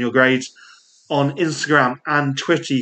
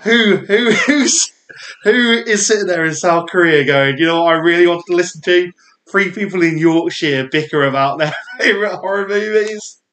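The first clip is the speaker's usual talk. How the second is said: incredulous mock listener; 4 semitones higher than usual. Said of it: "You go".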